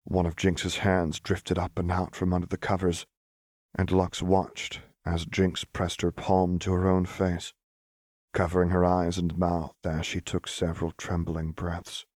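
measured, hushed storytelling; story narration. A narrator's reading. Narrator telling of Lux's heartbreak, story narration. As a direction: narrate a tender, sad scene. Reads fiction aloud.

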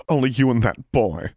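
put-on high, creaky old crone calling out. A narrator's reading. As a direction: call into the dark like an old crone. Old portrait voiced again.

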